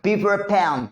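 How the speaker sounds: "pan" with a puff of air on the p; aspirated P demo. Shown as a demonstration. Teacher showing students the P sound, "pan" strongly aspirated. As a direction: pop the p in "pan" with breath. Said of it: "पी को कैसे pronounce करना है".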